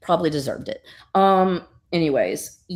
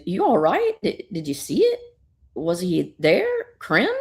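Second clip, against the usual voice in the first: lightly voiced girl with rising, higher questions; concerned little girl; 4 semitones higher than usual. Little girl asks stunned Supergirl what she saw, gently questioning. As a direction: check on her, each question lifting up. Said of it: "and she goes".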